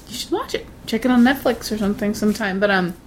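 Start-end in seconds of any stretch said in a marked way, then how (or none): 0.1-0.7 whispering. Real, not acted. Urging the viewer in a hush.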